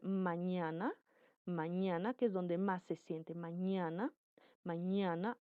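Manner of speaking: "mañana" carefully modelled, the "ñ" sent through the nose; nasal demonstration. Shown as a demonstration. Teacher showing air through nasal passages, deliberate demonstration of "mañana". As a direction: repeat "mañana" with a rising, unfinished tune. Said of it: "por las vías nasales".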